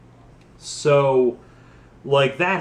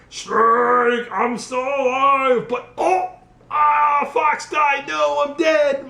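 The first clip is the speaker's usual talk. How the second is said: Liquid Snake; 11 semitones higher, slower than usual. Retold or imitated. Villain's mock death scene.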